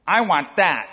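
a hint of a bossy toddler; toddler demands. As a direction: play a small child grabbing for things. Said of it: "It will be something like this".

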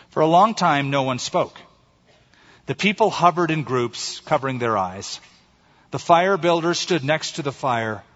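measured storytelling with weighted pauses; story narration. A narrator's reading. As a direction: read it like a solemn fable. Reads a short story aloud.

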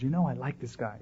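low-volume aside to a companion; hushed confiding. Acted. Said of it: "he whispers to him".

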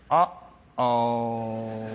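dismayed uh-oh. Retold or imitated. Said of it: "He must have thought in his mind".

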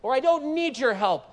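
a mock-proud refusal of help. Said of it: "Did he proudly say".

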